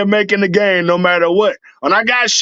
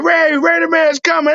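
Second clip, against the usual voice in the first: screaming out the window; 11 semitones higher than usual. Retold or imitated. Calling out to fans from his truck, high hype shout. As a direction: announce your arrival like a hero. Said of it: "I'm screaming out the window".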